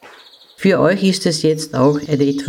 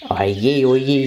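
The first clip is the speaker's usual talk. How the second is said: lightly voiced lament, a mild moan; wailing; 3 semitones lower than usual. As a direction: sigh out a gentle oh dear. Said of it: "jammerte die Igelfrau".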